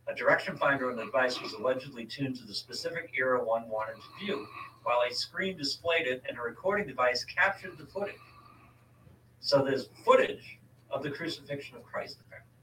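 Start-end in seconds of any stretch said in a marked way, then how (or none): 0.1-8.2 article read out to a co-host; reading aloud. Real, not acted. Host tells co-host who built the chronovisor, reading aloud. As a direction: read it from the page, steady and informative.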